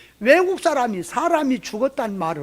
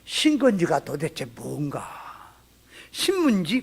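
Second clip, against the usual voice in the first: puzzled mumble; 6 semitones lower, 6 dB quieter, slower than usual. Retold or imitated. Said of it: "신건지 좀 퍼라 그랬더니".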